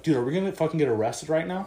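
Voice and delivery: retold panic, rushed; mild mock panic, fast; freaking out. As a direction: rattle it out like a worried driver. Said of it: "he starts freaking out".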